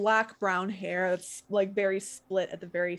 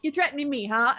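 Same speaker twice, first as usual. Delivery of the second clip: higher, mildly furious comeback; furious challenge; 5 semitones higher, 4 dB louder, faster than usual. Acted. Boy standing up to his threatener, mildly furious. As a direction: square up to the one threatening you. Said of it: "just fury written in his face".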